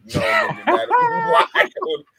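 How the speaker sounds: high, slow, laughing disbelief; stunned disbelief. Real, not acted. Reacting to his friend's wild comment, shocked and laughing. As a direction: squeal it out in shock through a laugh.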